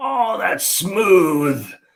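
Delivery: really raspy voice, pitched way up. Retelling how Team Skeptic reacts after coughing: imitating a raspy voice. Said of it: "in a really rasp voice".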